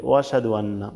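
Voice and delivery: ওয়া সাদু আন্না run together without the hamza; hamza dropped. Shown as a demonstration. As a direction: slur ওয়া সাদু আন্না quickly, no catch after ওয়া. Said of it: "তাহলে কিন্তু এই হামজাটা বাদ যাচ্ছে". (ওয়া সাদু আন্না, হামজা বাদ দিয়ে)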